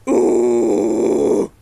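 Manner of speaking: loud forced grinding growl; false fold growl. Shown as a demonstration. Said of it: "force that even more".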